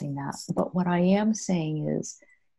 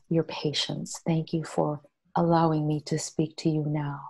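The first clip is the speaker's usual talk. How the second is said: gentle healing prayer. Shown as a demonstration. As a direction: pray tenderly to your body, unhurried. Speaks to her own body.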